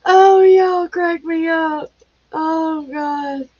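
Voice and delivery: cracking up, high and loud, slow; words squeezed out through laughter; laughing. Real, not acted. Laughing hard at viewers' jokes in chat.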